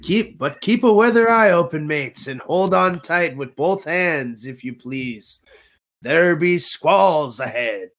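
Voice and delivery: lightly voiced pirate ride narrator. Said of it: "this little speech you hear on the ride".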